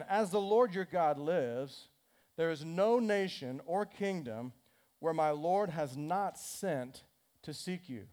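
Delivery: slow, measured reading of scripture. Acted. Preacher reads the verse to the church, slow and measured. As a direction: read each phrase deliberately to the congregation.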